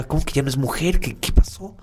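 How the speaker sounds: mock bewildered, rising high; puzzled question. Marcos asks the housekeeper, mock bewildered. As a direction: act baffled and ask again.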